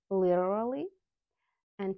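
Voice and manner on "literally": "literally" with a quick flapped T and an R. Shown as a demonstration. Teacher showing American pronunciation, flapped T and R in "literally". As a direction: tap the T lightly in "literally", then the R. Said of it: "flap T and R sound".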